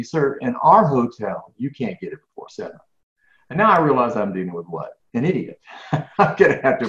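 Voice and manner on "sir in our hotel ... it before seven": polite again, slower. Retold or imitated. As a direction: spell out "Sir, in our hotel" slowly and firmly, still polite. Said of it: "very politely again said to me".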